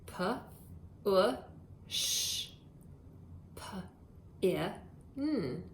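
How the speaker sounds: P, u, sh, p, i, n each isolated with pauses; sounding out. Shown as a demonstration. Teacher sounding out push pin while kids write. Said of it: "has the three sounds".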